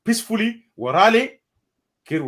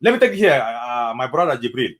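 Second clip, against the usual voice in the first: ordinary delivery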